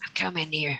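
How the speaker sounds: quiet, hushed stage whisper, said in character. Voicing a sneaking character who half-whispers to the others: half-whispering in character. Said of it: "say it, like, whisper".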